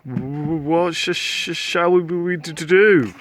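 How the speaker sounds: halting, stuttering and scared; stammering fear. Acted. Slime asking what to do among cats. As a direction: stutter with fright. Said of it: "the pair were scared".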